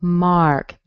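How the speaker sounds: "Mark." with a falling tune and clear ah; teacher models "Mark."; firm falling "Mark."; model pronunciation. Shown as a demonstration. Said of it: "How about Mark?".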